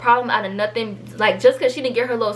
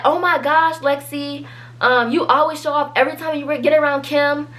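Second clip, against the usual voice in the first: retold yelling; 4 semitones higher than usual. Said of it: "she just kinda started yelling".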